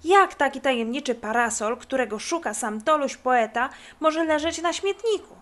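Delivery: a touch of huffy outrage; mildly angry. Acted. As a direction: snap back, offended at the very idea. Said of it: "Kubuś rozzłościł się".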